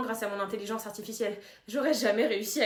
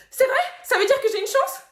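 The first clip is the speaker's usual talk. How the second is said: very high, loud eager question; hopeful excitement; 12 semitones higher, 9 dB louder than usual. Acted. Angel thinking the demon may agree, hopeful excitement. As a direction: leap at the hope.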